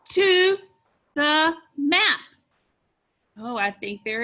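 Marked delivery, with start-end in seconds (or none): 0.1-2.2 high, loud, enthusiastic reading; excited. Shown as a demonstration. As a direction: exclaim it for the children to copy. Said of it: "say it again with excitement".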